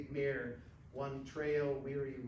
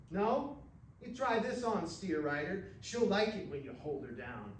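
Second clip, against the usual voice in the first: higher and louder, stinging back; angry retort; 5 semitones higher, 3 dB louder than usual. Acted. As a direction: hit him back, hurt and angry. Rainey angry in bar quarrel.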